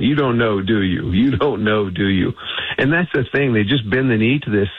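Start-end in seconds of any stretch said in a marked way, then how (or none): 0.0-2.3 a light Cajun drawl on a senator's taunt; lightly put-on Cajun accent, teasing. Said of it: "in his great Cajun accent".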